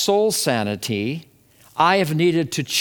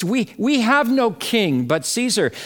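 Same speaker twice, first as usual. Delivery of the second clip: higher-pitched declaration, falling at the end; chief priest's declaration; 6 semitones higher than usual. Acted. Chief priest answering Pilate, a declaration. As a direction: declare it in a raised pitch, without shouting. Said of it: "that fateful declaration out of the mouth".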